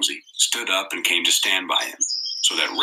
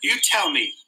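anxiously; 10 semitones higher than usual. A narrator's reading. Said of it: "said Piggy anxiously".

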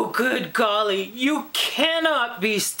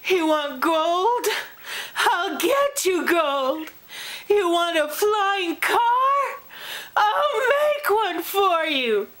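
desperate pleading; 6 semitones higher, slower than usual. Acted. Begging reader not to turn.

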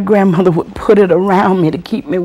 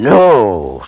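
engine noise; 10 semitones lower, 5 dB louder than usual. Retold or imitated. Imitates bulldozer engine starting up.

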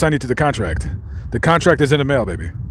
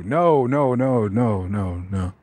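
mock refusal fading to much softer; 5 semitones lower, 5 dB quieter, slower than usual. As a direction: back away from the ghost, trailing off.

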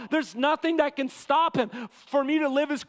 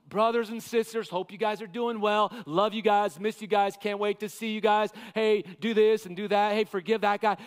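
friendly letter tone; 2 semitones lower than usual. Acted. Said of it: "It's all".

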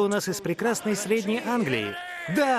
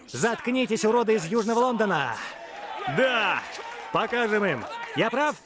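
rallying shout; 3 semitones higher than usual. Acted. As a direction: shout it at the team. Rallying team in dressing room.

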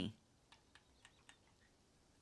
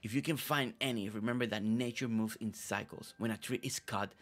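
low, hushed, brooding character voice; deep scary voice; 4 semitones lower than usual. Acted. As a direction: play a secretive dramatic villager. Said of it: "Always with that deep voice".

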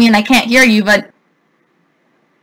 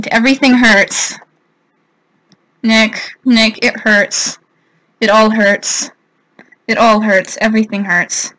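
subdued, drained complaint sinking softer; defeated lament; 2 semitones lower, 3 dB quieter than usual. Real, not acted. Player telling a friend that everything hurts, defeated lament. Lamenting to Nick after losing.

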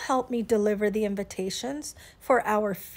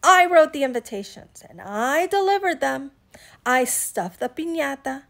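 emphatic telling-off, hitting each "I"; cross, self-righteous lecture; indignant scolding; 5 dB louder than usual. Acted. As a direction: list your work with mounting indignation, loud at the end. Iguana scolds friends in angry circles.

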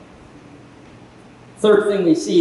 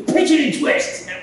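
higher, slower coaching instruction; 8 semitones higher than usual. Retold or imitated. Coach showing a boy how to pitch, drawn out. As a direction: stretch out the pitching tip.

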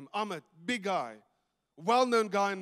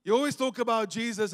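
with attitude; 2 semitones higher than usual. Retold or imitated. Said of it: "he had an attitude".

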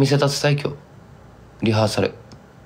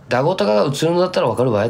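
fast, raised Kumamoto sentence; Kumamoto dialect example; 6 semitones higher, much faster than usual. Shown as a demonstration. Explaining what locals would say, quick Kumamoto dialect. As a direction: rattle it off in broad dialect. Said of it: "って".

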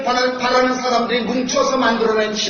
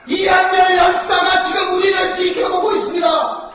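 roaring rallying speech. Real, not acted. Invoking martyrs, shouting.

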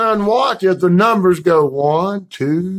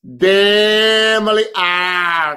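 slow drawn out; much slower than usual. Shown as a demonstration.

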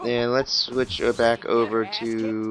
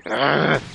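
high, irritated groan; real exasperated "ugh"; frustrated growl; 5 semitones higher, 4 dB louder than usual. Real, not acted. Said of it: "I'm getting mad".

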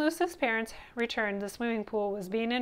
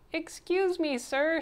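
higher-pitched, polite interruption; lightly voiced boy; 7 semitones higher, 3 dB louder, slower than usual. A narrator's reading. Louis interrupts the coach, higher and polite. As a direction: pipe up to get the coach's attention. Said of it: "said Louis".

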